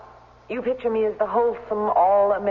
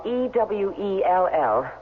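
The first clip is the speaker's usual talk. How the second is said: spelling out slowly; slower than usual. Shown as a demonstration. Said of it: "not like the Christmas log".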